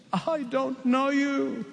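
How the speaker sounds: very slow, cold refusal; the bridegroom's slow, final rejection; stern bridegroom. Acted. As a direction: draw each word out like a closing door. Bridegroom rejects the foolish ones.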